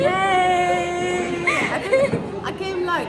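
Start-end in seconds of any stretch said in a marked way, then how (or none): 0.1-1.5 shouted sung yay; happy shouted cheer. Real, not acted. Cheering at graduation.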